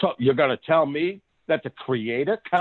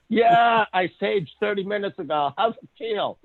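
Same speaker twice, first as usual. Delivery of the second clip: taunting shout; 5 semitones higher than usual. Retold or imitated. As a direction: rub it in, crowing over the owl. Joe taunting the owl.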